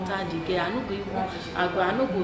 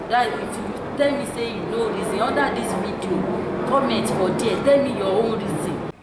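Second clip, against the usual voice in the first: louder call to viewers; 3 semitones higher, 6 dB louder than usual. Real, not acted. Urging viewers to comment.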